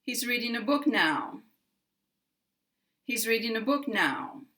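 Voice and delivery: a little extra stress on "now", then falling; "now" stressed with a downward glide; final-word stress. Shown as a demonstration. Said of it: "get a little more stress".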